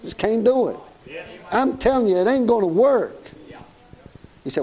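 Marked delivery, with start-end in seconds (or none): 1.5-3.2 higher, pressing preacher's insistence; emphatic preaching. Real, not acted. Preacher insisting to the congregation it won't work. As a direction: drive the point home.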